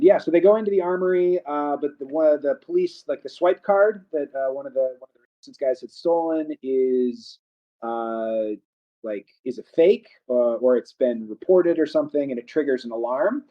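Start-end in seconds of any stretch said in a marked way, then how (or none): 4.3-13.4 muffled, away from the mic. Real, not acted. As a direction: voice sounds muffled and distant. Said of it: "voice is a little, like, muffled".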